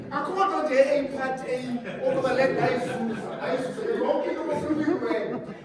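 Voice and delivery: laughing hard over a joke in Xhosa; loud laughing. Real, not acted. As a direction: crack up while saying it, loud and high. Joking in Xhosa, laughing loudly.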